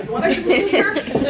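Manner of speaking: high, loud mock Jewish accent; attempted Jewish accent. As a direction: redo the rabbi's clumsy accent, hammed up. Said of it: "I don't do that accent well".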